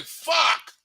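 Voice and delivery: mock shocked cursing; stunned outburst. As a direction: react to shocking news. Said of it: "you like".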